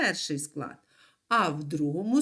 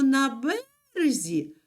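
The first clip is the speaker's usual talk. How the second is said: на березі with a high, held бе; stress on first syllable; 5 semitones higher than usual. Shown as a demonstration. Teacher recalling the bank word, first-syllable stress on березі. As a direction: hold бе high in березі, drop рзі. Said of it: "перший склад наголошений".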